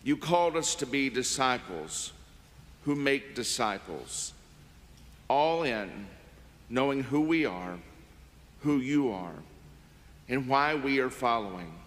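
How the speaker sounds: reverent, measured prayer. Acted. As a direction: pray it earnestly and steadily. Offertory prayer after announcements.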